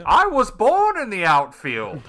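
dramatic declaration. Pretend. Dramatic origin line.

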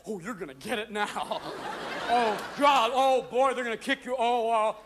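high, excited dog voice; worked-up tattletale dog; gloating dog. Acted. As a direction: gasp and warn with mock dread. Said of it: "Usually your dog's over here going".

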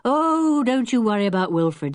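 high, lively reassurance; cheerful. A narrator's reading. Julian tells Missus Lehman not to worry, cheerful. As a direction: brush the worry away cheerfully. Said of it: "said Julian cheerfully".

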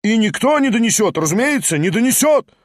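excited crowd shouting; chorus of shouts. A narrator's reading. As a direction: voices piling on in agreement. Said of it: "послышались многие голоса".

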